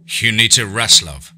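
lightly voiced gravelly old man; a hint of an old man's gravel. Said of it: "in his old gravelly voice".

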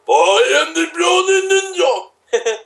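high, slow, hammed-up ninja battle cry; over-the-top high-pitched ninja intro; Brownie Ninja character shout. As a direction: belt out a cartoon hero name. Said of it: "That's me!".

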